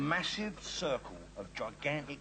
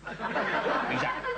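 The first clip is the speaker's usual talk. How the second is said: laughing; 4 dB louder, much slower than usual. Real, not acted. Punchline after "I live in Peckham.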